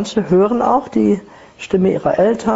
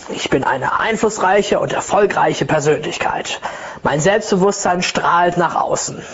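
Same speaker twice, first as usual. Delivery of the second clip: mirror affirmation; slower than usual. Retold or imitated. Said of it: "dann stand ich immer vor meinem Spiegel".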